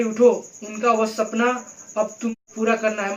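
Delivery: a friend consoling the widow, firmly. Shown as a demonstration. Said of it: "चौथा है संतावना देना".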